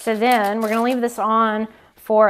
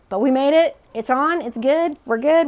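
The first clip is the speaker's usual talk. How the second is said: relieved excitement; 5 semitones higher, 4 dB louder than usual. Real, not acted. Pie safely transferred.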